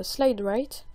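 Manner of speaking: tongue-in-cheek attempt at an English accent. Tutorial host showing off a transition name, mock English accent. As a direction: say it with a lightly put-on English accent. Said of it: "avec mon super accent anglais".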